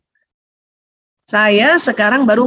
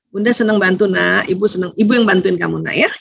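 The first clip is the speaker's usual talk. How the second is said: tender mother; 5 semitones lower than usual. Retold or imitated. Mother offering help to child.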